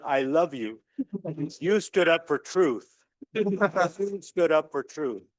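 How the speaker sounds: slow, tender words to a son; dad telling his son he stood up for truth; tender praise. Retold or imitated. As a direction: say it slowly like a proud father hugging his boy.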